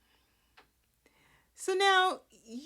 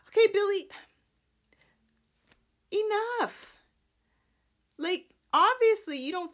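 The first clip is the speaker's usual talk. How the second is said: exasperated; 12 semitones higher, 4 dB louder than usual. Real, not acted. Vlogger scolds character.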